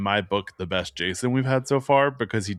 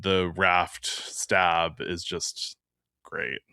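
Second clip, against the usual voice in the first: whispering; 4 semitones lower, 5 dB quieter, much slower than usual. Real, not acted. Hushed admiration.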